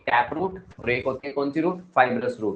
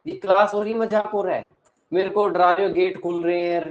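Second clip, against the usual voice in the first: higher, indignant outburst; annoyed scolding; 5 semitones higher, 4 dB louder than usual. Real, not acted. Teacher scolding students for scaring him, higher pitch. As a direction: tell them off for scaring you.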